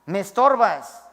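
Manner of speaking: mock harsh dismissal; a touch of a husband's contempt; lightly voiced husband shouting at his wife; angry husband. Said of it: "Le decías a ella".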